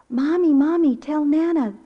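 put-on high, loud little-girl call; imitated child's yell. Granddaughter yelling to her mother in background, imitated yell. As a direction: holler for mom like an excited child. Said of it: "She was yelling".

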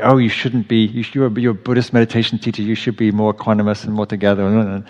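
brisk, reproachful inner critic; mock telling yourself off; scolding self-talk. Shown as a demonstration. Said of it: "rather than like".

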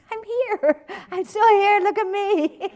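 high, loud cry for attention; desperate self-belief. Acted. Self-belief demanding to be seen, loud desperate plea. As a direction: insist on being noticed, hammed-up desperation. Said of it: "the equally desperate voice of self-belief".

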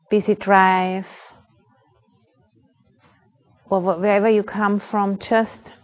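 calm, measured meditation guide with long pauses; unhurried, even-toned meditation instruction; guided meditation. Real, not acted. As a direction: guide a group gently into awareness, leaving space between phrases.

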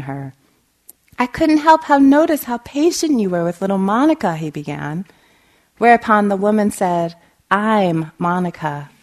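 measured read-aloud storytelling; story narration. A narrator's reading. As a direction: read it out clearly to an audience.

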